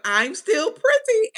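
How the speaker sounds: high, slow, proud "I'm still pretty"; mock vain Kim Bella. Retelling Kim Bella's boast after the fight, high and slow. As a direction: drag it out, preening and smug. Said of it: "And Kim Bella like".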